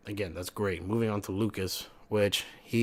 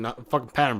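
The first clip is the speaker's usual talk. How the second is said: louder, punching the word pattern; sarcastic loud jab; 3 semitones higher, 6 dB louder, faster than usual. Acted. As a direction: hammer home the sarcasm. Sarcastic rant about game pattern.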